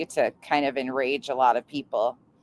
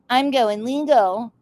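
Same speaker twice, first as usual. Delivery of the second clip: mock whisper; 5 semitones higher, slower than usual. Mocking rival's legal threat.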